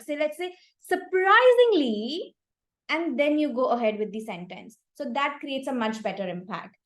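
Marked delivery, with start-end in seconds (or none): 0.8-2.3 "surprisingly" drawn out slowly, higher and louder; stress demo. Shown as a demonstration. Demonstrating word stress to the speaker, "surprisingly" stretched and punched. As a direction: lean hard into "surprisingly," slow and strong. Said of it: "if you emphasize on one particular word".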